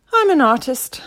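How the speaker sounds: very high, loud little creature voice; indignant tiny caterpillar squeak. A narrator's reading. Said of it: "squeaked the eyebrow".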